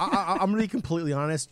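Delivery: quick, laughing through words. Real, not acted. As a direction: giggle as you rush it. Laughing while teasing.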